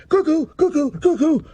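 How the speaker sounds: high, loud cuckoo call from the platform. A narrator's reading. Clock cuckoo calling out the hour, loud and high. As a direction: sing out the hour like a clock bird.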